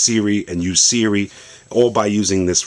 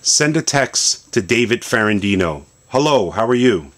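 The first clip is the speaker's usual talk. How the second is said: voice command; 3 semitones higher than usual. Shown as a demonstration. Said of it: "So now we can send a text".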